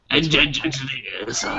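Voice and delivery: whispered stuttering echo; hushed stammered imitation; mock stutter. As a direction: whisper it in broken, repeated starts. Mimics the doubled word he heard.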